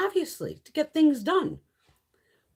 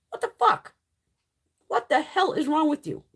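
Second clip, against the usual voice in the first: mock furious yell; 6 semitones higher than usual. Insulin users yelling at a congressman's door, furious shout. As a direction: shout it like an angry crowd at the door. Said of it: "kicking his fucking front door and going".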